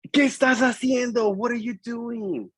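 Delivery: high, dragged-out outburst; acted teacher catching a pupil misbehaving; exasperated scolding. Teacher scolds student who mixed paints.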